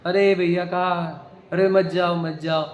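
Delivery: a hint of drowsy mumbling, slowing down; imitated sleep-talking. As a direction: lightly act out someone talking in their sleep. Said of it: "नींद में ही बोलते भी रहता हो".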